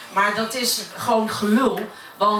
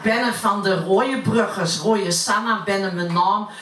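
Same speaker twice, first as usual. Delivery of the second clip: poem recited in plat Utrechts dialect; broad Utrecht accent. Acted. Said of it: "ik uit Utrecht kom". (plat Utrechts accent)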